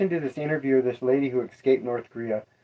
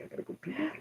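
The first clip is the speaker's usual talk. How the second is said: put-on much higher, babyish silly voice; baby talk; 14 semitones higher, 11 dB quieter, much faster than usual. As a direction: whine it like a little kid. Joking about needing the toilet.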